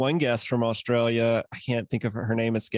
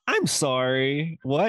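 slow disbelief; 3 semitones higher, much slower than usual. Retold or imitated. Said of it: "we were like".

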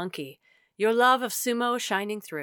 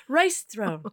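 laughing shout; 8 semitones higher than usual. Real, not acted. Laughing outburst mid-poem.

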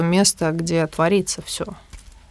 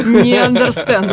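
higher, slow, broken-Russian foreigner voice; mock foreigner; 5 semitones higher, 5 dB louder, slower than usual. Imitating the American colleague's broken Russian, higher and slow. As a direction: play the confused American. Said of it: "he answers in broken Russian".

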